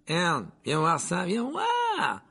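high, excited calling out. Acted. Stan calls his mate over, excited and high. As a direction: shout for your mate to come look.

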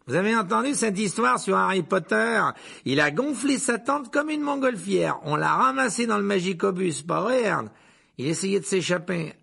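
loud, high, excited tattle; gossiping conductor. A narrator's reading. Conductor telling passengers about the runaway boy, excited. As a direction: spread the gossip loudly.

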